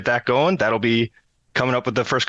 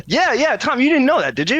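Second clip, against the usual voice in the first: playful teasing; 12 semitones higher than usual. Real, not acted. Teasing the host about news.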